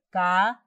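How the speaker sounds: cabellos in three separate syllables, ca-be-llos. Shown as a demonstration. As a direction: pause between each syllable of cabellos, leaning on be. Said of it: "La sílaba tónica es B porque suena más fuerte".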